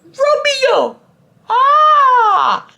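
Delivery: high, loud hammed-up wail of Romeo; over-the-top Juliet cry; mock dramatic cry. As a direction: wail the name like a tragic lover. Mocking the nerd's cry.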